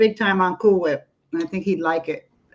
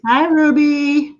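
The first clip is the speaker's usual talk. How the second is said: pet talk; 7 semitones higher, 4 dB louder, slower than usual. Real, not acted. Greeting the pet Ruby.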